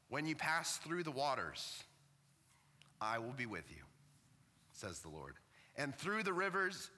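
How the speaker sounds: catching with emotion between phrases; choked up. Real, not acted. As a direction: read the verse haltingly, moved and choking up. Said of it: "I'm getting choked up about this".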